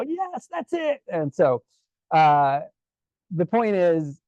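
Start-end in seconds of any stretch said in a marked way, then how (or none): 0.0-1.0 put-on high, drawn-out accented cry of approval; delighted accented maestro, pitched way up; Pepe Romero accent. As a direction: exclaim slowly in an imitated maestro's accent. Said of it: "and then Pepe".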